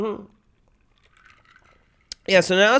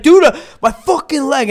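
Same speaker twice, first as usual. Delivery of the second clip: pained complaint; 7 semitones higher, 5 dB louder than usual. Retold or imitated. Friend retold complaining of his injured leg.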